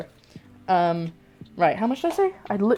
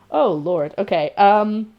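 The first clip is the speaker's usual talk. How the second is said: normal talking voice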